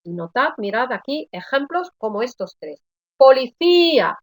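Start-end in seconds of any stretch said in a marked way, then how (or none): 3.2-4.2 Policía with a louder, higher stressed Í. Shown as a demonstration. Teacher showing students the weak vowel that carries the weight, stressed Í in Policía. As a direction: lean hard on the Í in Policía. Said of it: "llevan la intensidad de la palabra".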